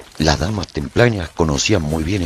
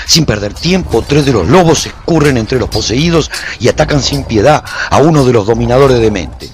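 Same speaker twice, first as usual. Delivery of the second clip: louder, tense and urgent; gripping battle narration; 5 semitones higher, 7 dB louder than usual. A narrator's reading. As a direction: push the fight forward with urgency. Narrating fierce battle with possessed.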